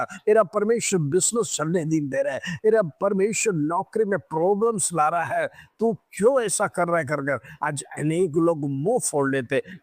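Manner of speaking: impassioned sermon delivery with driving phrases; urgent, exhorting Hindi preacher; fervent preaching. Real, not acted. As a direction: preach it with full conviction to the congregation. Preaches throughout to the congregation.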